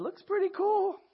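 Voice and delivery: high sarcastic brush-off; mock dismissive. Adam and Eve shrugging off God, mock dismissive. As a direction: brush off God's gift with a sneer. Mocking God's offer as Adam.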